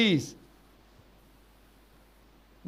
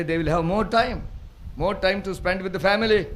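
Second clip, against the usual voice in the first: slow emphatic English; 3 semitones higher, 4 dB louder, much slower than usual. Real, not acted. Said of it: "slow English explanation".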